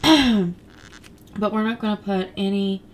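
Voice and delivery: just-woke-up rusty voice; croaky morning voice, throat not cleared yet. Real, not acted. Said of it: "sorry, I just woke up, so my voice sounds incredibly weird".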